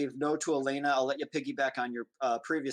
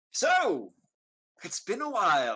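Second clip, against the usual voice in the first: put-on high, swooping, well-bred English gentleman accent; 5 semitones higher than usual. The English gentleman, propped up on the bed behind Taharn, speaks in an English gentleman voice. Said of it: "the English gentleman".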